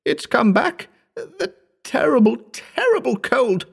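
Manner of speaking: very high, agonized wail; choked shriek. A narrator's reading. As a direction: cry out in terror as pain returns. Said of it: "when Wells shrieked".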